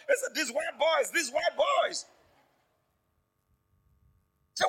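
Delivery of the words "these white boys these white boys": put-on child's reply. The pastor's son telling the teacher back, childlike. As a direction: answer the teacher like a small boy.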